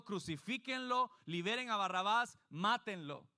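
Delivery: hammed-up angry crowd crying for his death; crowd's demand. (multitud gritando furiosa: crucifíquenlo)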